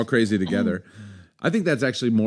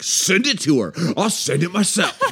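retold bluffing dare; 5 semitones higher than usual. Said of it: "call their bluff and be like".

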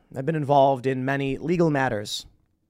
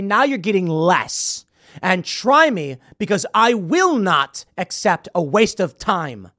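firm threat; 4 semitones higher, 5 dB louder than usual. Retold or imitated. Threatening opponent in retold negotiation.

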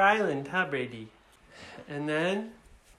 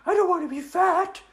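high, hesitant dragon voice; reluctant girl dragon; 11 semitones higher than usual. Acted. Dragon concedes to the kids, high hesitant admission. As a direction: give in haltingly in a high girly voice. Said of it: "And she said".

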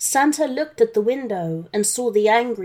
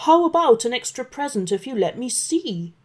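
coaxing; 3 semitones higher, faster than usual. Acted. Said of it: "coaxed Santa".

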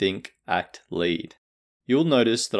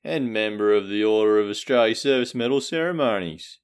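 lightly hammed-up broad Australian bloke; Australian ocker accent. Podcast host greets listeners as a lightly voiced Australian bloke. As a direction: play a laid-back Aussie larrikin, half-joking.

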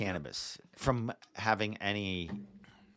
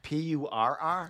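slow spelled-out letters; 2 semitones higher, slower than usual. Shown as a demonstration. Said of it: "repeating the spelling back".

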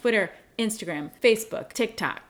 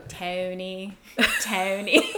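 lightly imitated Pennsylvania accent; playful mimicry of a Pennsylvania accent; Ben; much slower than usual. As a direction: do a friend's Delaware-area vowels. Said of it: "that's always my impression of Ben".

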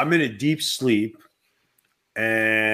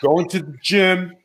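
Macho Man voice; 5 semitones higher, 4 dB louder than usual. Acted. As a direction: hype it like a pro wrestler. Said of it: "Did you just do your Macho Man voice?".

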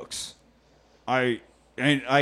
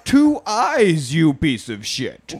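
villain taunt; 6 semitones higher, 4 dB louder, slower than usual. Pretend.

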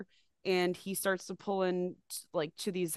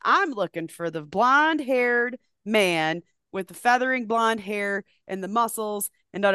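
eager asking; 3 semitones higher, 6 dB louder than usual. Retold or imitated. Retold phone call asking for guy.

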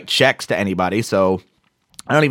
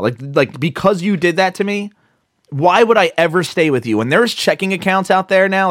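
angry rant; 5 semitones higher than usual. Retold or imitated. Imagined rant at the bank rep over fees, higher and heated. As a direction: build the outrage line by line. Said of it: "I was really, really angry".

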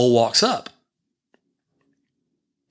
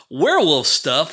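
slow, rising, higher disbelief; incredulous echo; 3 semitones higher than usual. Retold or imitated. Dad echoing his four-year-old's claim, slow rising disbelief. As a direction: echo his words as if unheard of.

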